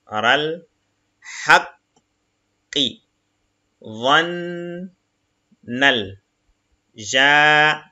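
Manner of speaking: each Arabic syllable said apart, slowly; syllable reading. Shown as a demonstration. Teacher reading Arabic syllables to the class, slow and separated. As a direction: spell the word out syllable by syllable. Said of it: "On fait la liaison".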